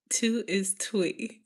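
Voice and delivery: "Two" slowly turned into "twee"; imitated Memphis pronunciation. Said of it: "how do they say".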